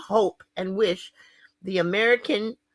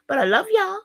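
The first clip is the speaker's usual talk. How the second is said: laughing; 13 semitones higher, 5 dB louder than usual. Real, not acted. Laughing sign-off to viewers.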